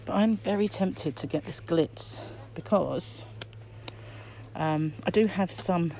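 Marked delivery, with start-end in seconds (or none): 4.6-5.9 muffled behind a mask; through a face mask. Real, not acted. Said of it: "I'm sorry if I'm muffled, it's the mask".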